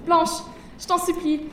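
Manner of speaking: put-on a girl pleading to protect her future; pleading little voice. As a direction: beg her not to tell. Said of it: "sa petite voix suppliante".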